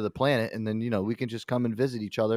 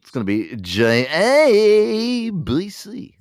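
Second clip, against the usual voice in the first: loud, high, slow station ident; announcer voice; 10 semitones higher, 9 dB louder, much slower than usual. Pretend. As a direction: stretch it out like a network jingle. Mock drawn-out announcer.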